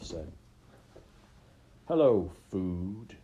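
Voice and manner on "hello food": put-on slow, louder, gleeful young wolf; excited greeting. Young wolf greeting his prey with eager excitement. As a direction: savor the word like a hungry predator. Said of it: "his voice higher, filled with excitement".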